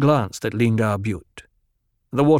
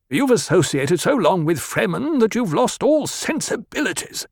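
higher, rasping accusation; 9 semitones higher than usual. Acted. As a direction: rasp the words out in anger. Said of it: "the banker rasped".

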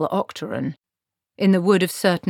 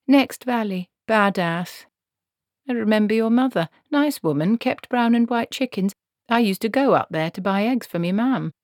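put-on brisk, louder, bossy old witch; a no-nonsense old witch taking charge; stern old woman; 6 semitones higher, 4 dB louder than usual. Granny reminiscing.

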